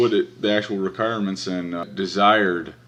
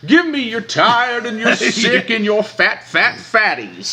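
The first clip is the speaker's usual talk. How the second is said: high, loud, slow proclaiming voice; mock grand recitation; 10 dB louder, slower than usual. Mock Statue of Liberty recital.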